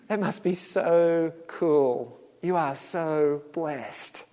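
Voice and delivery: slow, drawn-out sweet encouragement; mock cheerful. Churchgoer mock-congratulating a friend who lost his job, slow and sugary. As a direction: play it as absurdly upbeat congratulations.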